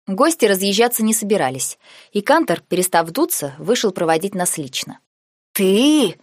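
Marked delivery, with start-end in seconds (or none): 5.5-6.2 hissed. A narrator's reading. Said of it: "прошипел Нике".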